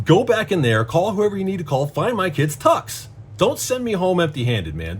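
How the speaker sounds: exasperated, insistent pleading, pitched high; desperate demand. Retold or imitated. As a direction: press the clerk to get it fixed. Retold desperate demand to the clerk.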